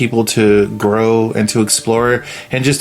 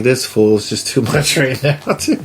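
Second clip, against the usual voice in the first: laughing. Retold or imitated. Laughing at JP scene.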